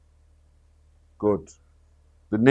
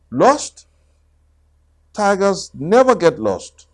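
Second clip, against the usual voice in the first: Tigger voice; 6 semitones higher than usual. Acted. Tigger scoffing.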